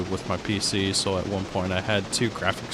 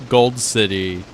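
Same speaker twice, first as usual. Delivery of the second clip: excited; 4 semitones higher, 10 dB louder, slower than usual. Real, not acted. Excited retelling.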